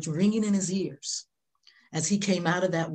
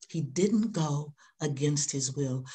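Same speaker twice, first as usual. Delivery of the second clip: slower, weighing "didn't" each time; slower repeat; slower than usual. Shown as a demonstration. Preacher repeating the line slowly for the congregation. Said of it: "and he didn't go against his will".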